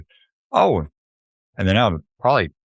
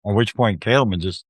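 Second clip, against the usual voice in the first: usual speaking voice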